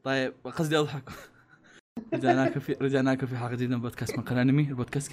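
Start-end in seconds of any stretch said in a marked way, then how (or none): 2.1-5.1 fast host intro. Acted. Podcast intro read.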